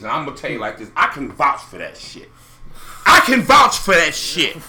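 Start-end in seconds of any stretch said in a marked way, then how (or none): 3.0-4.6 louder, slower, weighty repeat; emphatic. Real, not acted. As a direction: lean on every word and slow down.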